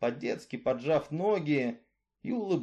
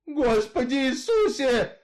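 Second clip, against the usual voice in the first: put-on high, loud frightened old woman; a shrieking plea to heaven; grandmother cries out; 9 semitones higher, 6 dB louder than usual. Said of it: "закричала бабушка". (громкий высокий вскрик бабушки)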